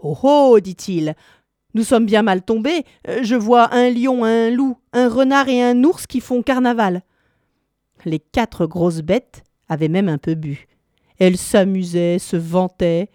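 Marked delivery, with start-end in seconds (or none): 0.0-7.0 higher, urgent alarmed whisper-turned-exclaim; a frightened cat sounding the alarm. Acted. Cat telling companions what beasts it sees, alarmed.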